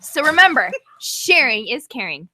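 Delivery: letter read aloud in her own accent; reading a fan letter. Shown as a demonstration. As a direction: read the note to the audience plainly. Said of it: "In my regular accent".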